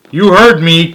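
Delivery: high, loud stern call. A narrator's reading. George calling out sternly to Martha by the pool. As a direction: call it out, firm and strict. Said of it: "called out George".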